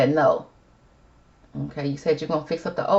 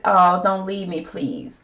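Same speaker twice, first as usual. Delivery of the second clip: acted plea; 2 semitones higher, much slower than usual. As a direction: plead it in Jennifer's place, lightly acted. Acting out Jennifer's pleading card.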